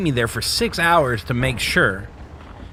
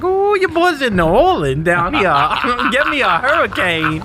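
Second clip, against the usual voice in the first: much higher, louder giddy drugged voice; high on Demerol; 12 semitones higher, 3 dB louder than usual. Retold or imitated. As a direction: ham up being blissfully high. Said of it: "once they gave me that Demerol".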